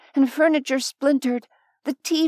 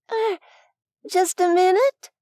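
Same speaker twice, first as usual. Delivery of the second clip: calling out; 8 semitones higher than usual. Acted. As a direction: call through the door, flustered. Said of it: "Nevaeh called".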